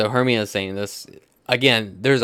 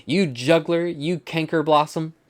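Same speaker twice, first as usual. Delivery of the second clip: higher-pitched stage insults; acted accusation; 7 semitones higher than usual. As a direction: fling names at a rival, theatrically. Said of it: "and she turns to Helena".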